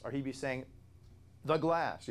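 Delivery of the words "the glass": "The glass" raised and punched, louder on THE; emphatic tone. Shown as a demonstration. Teacher showing the tone a Greek article carries, emphatic. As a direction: hit "The glass" with raised pitch. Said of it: "he'd be more emphatic about it".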